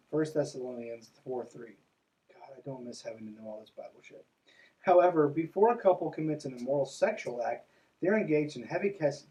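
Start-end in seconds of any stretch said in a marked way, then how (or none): 2.3-4.3 muttered aside. Real, not acted.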